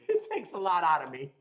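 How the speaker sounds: chuckling as he repeats it; laughing repeat. Real, not acted. Repeating his joke to the stream, laughing. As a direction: say it again through a laugh.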